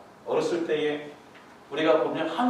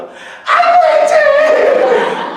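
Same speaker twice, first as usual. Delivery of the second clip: high, drawn-out squeal of delight over the dog; high doting coo, stretched out; doting wife; 16 dB louder, much slower than usual. Retold or imitated. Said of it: "우리 와이프가".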